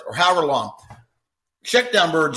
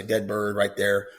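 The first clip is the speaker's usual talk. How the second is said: calm handler cue; 4 semitones lower, 3 dB quieter, slower than usual. Shown as a demonstration. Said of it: "Now, you know, I say".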